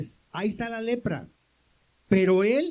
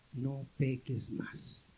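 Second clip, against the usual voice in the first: much softer and very slow, lowered voice; almost hushed, lingering on each word like a gentle command; tender admonition; 7 semitones lower, 10 dB quieter, much slower than usual. Acted. Christus mahnt den Vergebenen.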